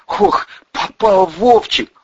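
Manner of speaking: high, drawn-out worried exclamation; gasping in dismay. A narrator's reading. Bandura sees Vovchik in trouble, gasping. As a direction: let out a mild dismayed gasp. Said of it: "ахнул Бандура".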